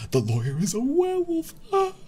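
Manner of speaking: very high squealed mock-shock reveal; mock horror. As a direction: shriek the twist in hammed-up terror.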